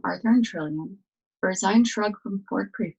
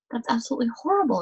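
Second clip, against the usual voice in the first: fast, higher outburst of disgust; exclaiming in disgust; 5 semitones higher, much faster than usual. Acted. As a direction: blurt it out quickly, appalled. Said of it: "exclaimed Arthur".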